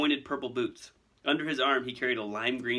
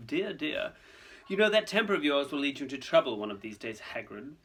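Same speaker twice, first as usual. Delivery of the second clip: higher, smooth mock concern; condescending villain; 4 semitones higher than usual. Malfoy chiding Hagrid's temper, condescending. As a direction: chide him with smug calm.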